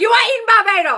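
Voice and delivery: high-pitched, loud yell.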